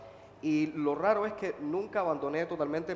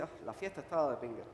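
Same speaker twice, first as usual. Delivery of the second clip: quick, quieter, sour "Ah" with "estaba" falling; disgusted complaint; 6 dB quieter, faster than usual. Shown as a demonstration. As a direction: brush it off as a terrible party. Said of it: "puede ser que era la peor fiesta del mundo". (con fastidio, rápido y más bajo, "estaba" cayendo)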